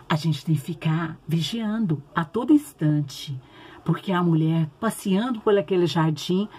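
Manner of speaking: put-on gentle storytelling for kids; reading to children. (contação de história bíblica para crianças)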